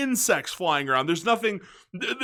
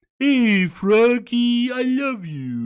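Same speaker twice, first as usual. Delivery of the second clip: very slow, dopey, lovable goofball voice, pitched up; 5 semitones higher, 4 dB louder than usual. Describing a favorite game version of a character: imitating Big the Cat, slow goofy voice. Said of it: "kinda sounds really slow".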